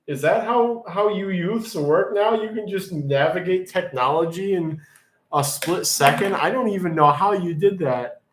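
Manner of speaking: high, amazed disbelief; can't believe how fast you were; incredulous. Real, not acted. Amazed at viewer's fast answer.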